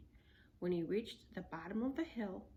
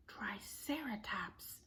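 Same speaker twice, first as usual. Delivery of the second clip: awed whisper; slower than usual. Acted.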